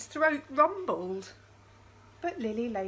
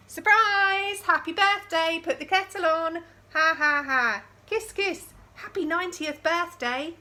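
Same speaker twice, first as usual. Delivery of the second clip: much higher, louder joyful cheering; party shout; 7 semitones higher, 7 dB louder than usual. Acted. Party guests cheering at Lily's door. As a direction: shout it like a surprise party crowd.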